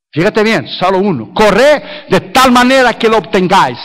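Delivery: declaimed scripture. Real, not acted. Preacher reading Corinthians to the congregation, emphatic declaiming. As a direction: proclaim the verse, punching key words.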